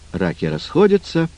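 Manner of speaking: plain reading voice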